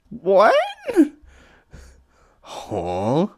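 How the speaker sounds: high, loud startled what. Acted. Heather caught off guard, loud startled squeak. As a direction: jump at the question.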